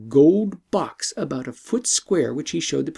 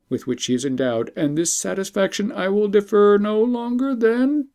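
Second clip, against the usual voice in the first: lightly voiced emperor, gracious; a touch of a kindly monarch inviting. Emperor's speech read aloud.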